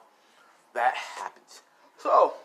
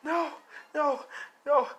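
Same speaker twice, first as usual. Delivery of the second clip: screaming no; 13 semitones higher, slower than usual. Acted. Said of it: "Deku screaming out".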